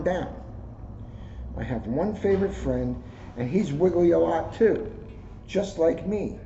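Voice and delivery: gentle storybook read-aloud; reading to children. Acted. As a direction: read it like story time for kids. Reads a kids' book aloud.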